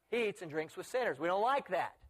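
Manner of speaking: acted indignant objection at full voice; open complaint. Critics objecting openly to Jesus's company, mildly indignant.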